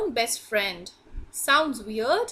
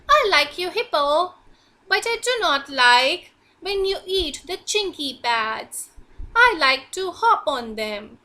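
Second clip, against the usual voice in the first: little frog voice; 3 semitones higher, 4 dB louder than usual. Acted. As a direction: squeak it up as the tiny complaining frog. Frog character speaks.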